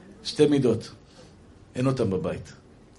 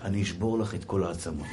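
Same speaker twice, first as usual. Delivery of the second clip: very low, soft mock menace; comic menace in an undertone; hushed threat; 10 semitones lower, 9 dB quieter than usual. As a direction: threaten under your breath, much lower. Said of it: "תגיד לה בלחש".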